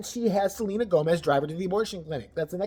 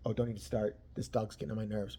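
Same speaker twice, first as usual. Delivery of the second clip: mock catty aside; 7 semitones lower, 9 dB quieter than usual. Imagined Selena aside.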